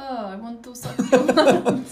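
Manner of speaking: loud, laughing mock vampire; vampire impression. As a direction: ham up a vampire through laughter. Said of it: "do an impression of them".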